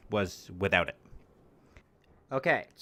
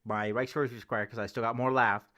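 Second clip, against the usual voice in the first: mouth full; 3 dB quieter than usual. Real, not acted. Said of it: "I'm gonna take a bite".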